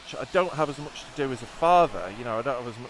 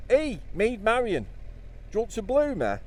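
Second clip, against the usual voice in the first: put-on Robin Hood local accent; 10 semitones higher than usual. Vlogger imagines Robin Hood chatting up Maid Marian, high local accent. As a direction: play Robin Hood as a cheeky Nottingham lad. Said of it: "What if Robin Hood talked like that?".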